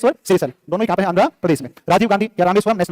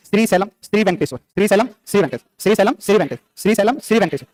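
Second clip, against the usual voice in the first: slow drill; slower than usual. Shown as a demonstration. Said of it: "याद रखना है".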